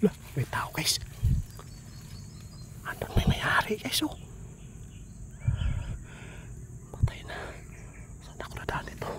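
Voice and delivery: urgent hushed whisper. Real, not acted. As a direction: whisper so nobody hears. Hiding from land owner.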